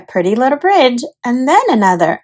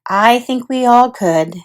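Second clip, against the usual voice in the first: sighed. Acted. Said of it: "Her mother sighed".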